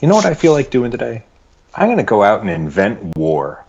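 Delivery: lightly voiced eager brute, pitch jumping up; mock Kragnos. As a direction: play him as a cheerful warmonger announcing his plan. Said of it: "and he's like".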